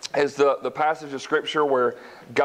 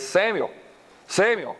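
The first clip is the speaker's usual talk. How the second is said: higher, drawn-out calling of the name; God calling; 5 semitones higher than usual. Acted. God calling the boy at night.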